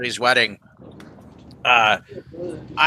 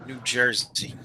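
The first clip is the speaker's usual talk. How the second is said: softer put-on New Jersey accent; 2 semitones lower, 8 dB quieter than usual. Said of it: "like, that New York accent".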